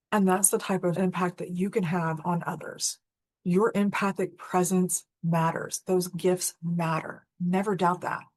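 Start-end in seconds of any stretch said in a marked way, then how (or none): 3.4-8.2 sincere. Real, not acted. Sincere closing message to listeners.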